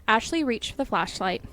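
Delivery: usual speaking voice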